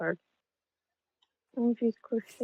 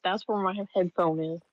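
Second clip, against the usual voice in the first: muffled by a pillow; 3 semitones lower than usual. Real, not acted. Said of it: "Quit talking into the pillow".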